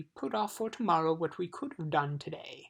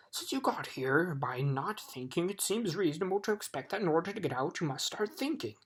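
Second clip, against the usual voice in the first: impatient. Acted. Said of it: "the dog continued impatiently".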